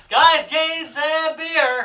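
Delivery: high, loud hype shout; cheering shout. Real, not acted. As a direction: yell it out like a crowd cheer. Show intro cheer.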